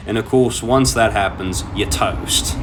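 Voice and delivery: put-on light Zimbabwean South African accent. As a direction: quote him in a Zimbabwean accent. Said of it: "in his thick Zimbabwean South African accent".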